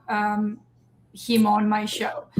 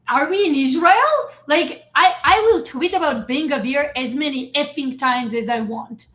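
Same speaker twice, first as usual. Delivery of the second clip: defiant outrage; 2 semitones higher than usual. Retold or imitated. Creator defying border agents, indignant. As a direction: push back hard, outraged.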